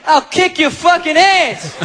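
very slow, loud threat; belligerent drunk. Retold or imitated. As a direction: growl it, spoiling for a fight. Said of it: "Oh, you just saw Rocky".

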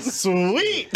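high laughing sweet; thrilled little cheer; excited. Retold or imitated. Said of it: "I'm like".

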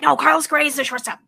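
lightly voiced impatient husband; husband's voice. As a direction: correct her fast in his voice. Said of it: "He's like".

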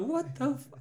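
high-pitched incredulous outburst; mock disbelief. Judge reacting to girl's cheeky jewelry answer, mock disbelief. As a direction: imitate a baffled judge, voice jumping up.

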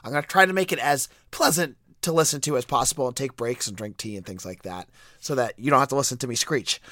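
hoarse, squeaky voice from a cold; talking through a head cold. Real, not acted. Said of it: "I have a cold".

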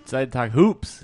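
slow, over-enthusiastic and stiff; overeager. Real, not acted. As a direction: sell it too hard. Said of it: "sounds like you're trying to convince us".

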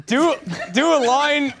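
mock Canadian accent. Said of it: "kinda Canadian".

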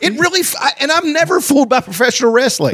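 laughing through the words; giggling while talking. Real, not acted. Laughing at being fooled.

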